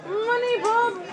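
calling out. Real, not acted. Calling for Bob.

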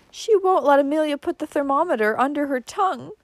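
high-pitched whimpered complaint; whimpering. A narrator's reading. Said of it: "whimpered Cousin Stickles".

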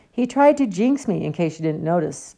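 a touch of heated protest; fuming. Acted. Harry defends himself to Hermione, mildly fuming. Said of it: "fumed Harry".

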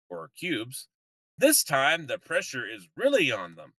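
slow, drawn-out cliffhanger narration; mock serial announcer signing off. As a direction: read it like a campy TV announcer. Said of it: "cliffhanger text says".

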